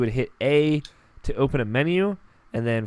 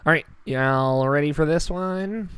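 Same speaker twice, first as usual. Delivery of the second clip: nerdy voice; 4 semitones higher, 4 dB louder than usual. Real, not acted. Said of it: "I sound like a nerd like right there".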